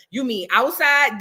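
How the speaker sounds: slow, playing dumb; mocking Megan's answer. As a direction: drag the question out innocently. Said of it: "that's exactly how she sounded".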